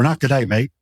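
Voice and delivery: Australian accent demo. Shown as a demonstration. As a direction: toss off an Australian "mate". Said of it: "That's Australian".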